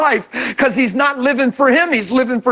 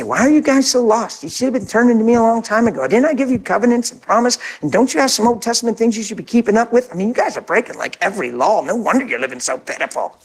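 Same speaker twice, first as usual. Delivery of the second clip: mock scolding God; 2 semitones lower, faster than usual. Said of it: "He didn't say".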